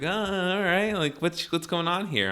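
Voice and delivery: high-pitched, easygoing cop greeting; imitated cop. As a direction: play the officer casually checking in.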